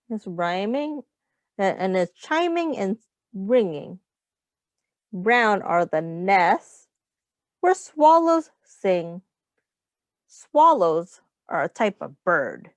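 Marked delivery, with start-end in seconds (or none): 5.1-9.2 slow sing-song read of the rhyme; gentle storybook reading; reading to children. Acted. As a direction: read each line slowly for little ones. Reads rhyming picture book aloud.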